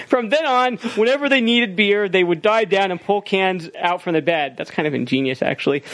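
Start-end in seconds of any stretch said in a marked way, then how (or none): 0.1-4.5 raised-pitch email-reading voice; put-on reader's voice, easing down toward the end. Shown as a demonstration. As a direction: read the letter out high and projected. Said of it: "Yeah, email voice. Do it".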